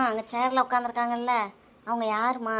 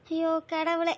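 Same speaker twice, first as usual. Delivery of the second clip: starting to cry; 4 semitones higher, much slower than usual. Real, not acted. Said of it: "அம்மா, அழாதீங்க".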